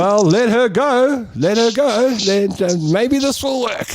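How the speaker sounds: high-pitched resigned self-talk; inner voice. Retold or imitated. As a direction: talk yourself into giving up. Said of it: "I thought".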